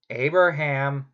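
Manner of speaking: firmer call. Acted. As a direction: call him out, demanding an answer. God calls Abraham again, firmer.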